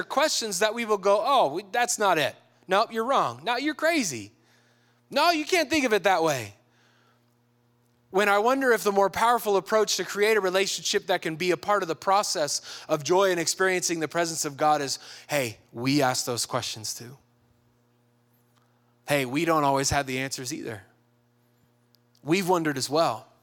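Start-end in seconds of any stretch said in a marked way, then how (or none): 1.2-6.6 higher-pitched imitation of curt rejection; a touch of scandalised correcting; mock dismissive. Acted church people rejecting questioners. 15.3-23.3 low-key, unhurried empathy; understated warm confiding; gently reassuring. Acted. Acted kinder answer to questioners.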